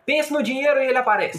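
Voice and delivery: high, loud mock guru; guru pitch voice. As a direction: sell it like a scam guru.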